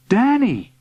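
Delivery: high-pitched motherly exclamation; mother calling. A narrator's reading. Mother in garden sees son, calling. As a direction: catch your child's attention.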